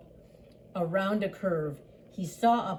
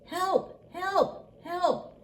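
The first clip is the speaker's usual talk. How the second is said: high little truck calling for help; small high-voiced plea; crying for help; 10 semitones higher, much slower than usual. A narrator's reading. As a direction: pipe it up high, in separate cries. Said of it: "cried the little blue truck".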